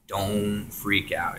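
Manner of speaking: hushed, gentle reassurance; soft motherly voice. Retold or imitated. Presence calming a panicking tripper in hushed motherly tone. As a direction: soothe him like a mother would. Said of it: "like a motherly voice".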